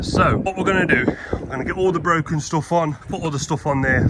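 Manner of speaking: winded after loading posts; out of breath. Real, not acted. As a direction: speak out of breath, panting. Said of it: "Sorry, we're out of breath".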